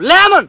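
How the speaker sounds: লেমন blasted out very high and loud; high, forceful shout on লেমন; IELTS-style pronunciation. Shown as a demonstration. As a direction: yell লেমন as an exaggerated IELTS demonstration. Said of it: "ঢুকে এনে কর লাগবো".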